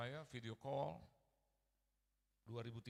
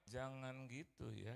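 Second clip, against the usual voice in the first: slow, mild reproof; gentle chiding; slower than usual. Retold or imitated. Mother mildly correcting her children, gently. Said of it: "itu nggak marah itu kayaknya".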